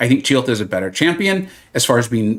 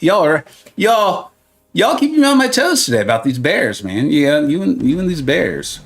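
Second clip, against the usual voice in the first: put-on McConaughey accent. Streamer teasing chat about bears in a rough McConaughey accent. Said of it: "I gotta work on my McConaughey accent".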